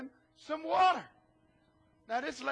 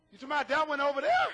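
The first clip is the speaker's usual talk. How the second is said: surprised Elisha; 6 dB louder, much faster than usual. Retold or imitated. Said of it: "Elisha said".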